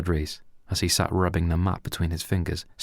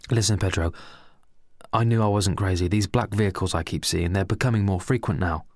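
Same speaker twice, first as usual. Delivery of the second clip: lightly voiced paranoid rant; crazy excited; 3 semitones higher than usual. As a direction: push it out like a wild conspiracy nut. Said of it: "said Al with a crazy and excited attitude".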